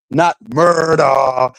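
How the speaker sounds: "murder" stretched long and slow; drawn-out "murder". Shown as a demonstration. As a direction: draw out both syllables of "murder". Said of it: "That's how she will say".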